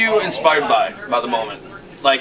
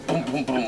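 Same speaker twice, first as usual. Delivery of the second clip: beatbox kick drum; 7 dB quieter than usual. Shown as a demonstration. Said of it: "You got a lot of bass in there".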